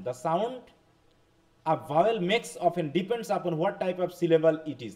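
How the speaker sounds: very slow, careful reading of a text; slow classroom reading aloud. Shown as a demonstration. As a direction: read it word by word for learners. Reads English text to class. (ক্লাসে ধীরে ধীরে ইংরেজি পাঠ)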